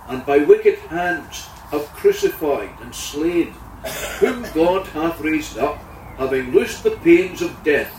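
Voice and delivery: measured, solemn Bible reading; scripture reading. Acted. Preacher reading Acts to the congregation, solemn. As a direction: read the verses with gravity.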